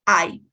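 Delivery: teacher modelling the sound; model pronunciation. Shown as a demonstration. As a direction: clear English I as a diphthong. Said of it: "Repeat, please".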